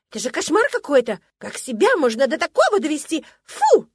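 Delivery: высоко и громко, захлёбываясь словами; выплесни ревность истерикой; истеричная тараторка. Acted. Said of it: "быстро затараторила". (высокая громкая истеричная скороговорка)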